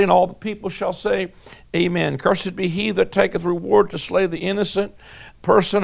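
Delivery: measured, solemn reading of the curses, each ending in a call for amen; scripture reading. Acted. Preacher reading the curses to the congregation, solemn and measured. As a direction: read it out like the pulpit Bible. Reads Deuteronomy curses aloud.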